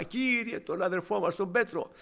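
loud, high pleading prayer; fervent cry. Retold or imitated. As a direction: cry out to the Lord begging. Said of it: "Τι φωνά".

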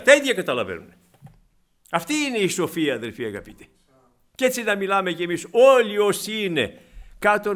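loud, rising sermon delivery; impassioned pulpit voice; fervent preaching. Acted. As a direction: build the praise of God's wisdom. Preacher rises in fervor.

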